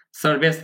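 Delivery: সার্ভিস ending in "bes", the i like an e. Shown as a demonstration. Teacher correcting the vowel for learners, I like E. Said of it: "ই উচ্চারণটা কিছু একারের মতো হবে".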